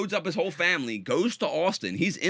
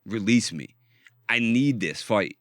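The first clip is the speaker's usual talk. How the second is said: lower, slow, hammed-up begging; mock desperate plea; 4 semitones lower, slower than usual. Imitating the manic man begging Rogan for the fight, slow plea. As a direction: drag it out like a man who can't sleep. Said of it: "He's like".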